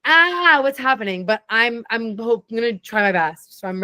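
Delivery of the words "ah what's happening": high startled "Ah", then a puzzled question; playful fake panic; mock bewildered gasp. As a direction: act like a guest caught off guard. Acted confused guest reaction.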